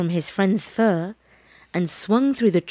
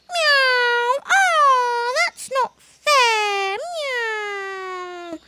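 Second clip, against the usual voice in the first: very high, whiny kitten cry with meows; protesting kitten; much slower than usual. A narrator's reading. Baby cat protests to his mother, high whiny wail. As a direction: wail it like a wronged little kitten. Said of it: "protested Baby Bush Cat".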